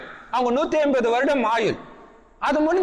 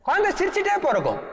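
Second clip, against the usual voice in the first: higher and faster, குழந்தை lifted with delight; excited emphasis; 6 semitones higher, faster than usual. Real, not acted. Preacher delighting the audience, excited and quick. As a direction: repeat it brightly and quicker, with wonder.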